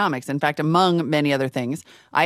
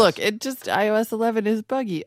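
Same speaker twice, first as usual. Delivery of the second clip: nerd voice; 5 semitones higher than usual. Acted. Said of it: "a nerd voice".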